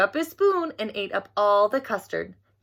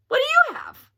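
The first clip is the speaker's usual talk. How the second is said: put-on 1 little girl voice; 4 dB louder than usual. A narrator's reading. Frances asks Albert about lunch.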